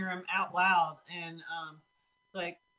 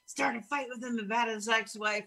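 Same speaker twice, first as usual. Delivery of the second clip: intrusive voice; 3 semitones higher than usual. Retold or imitated. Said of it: "I hear this voice going".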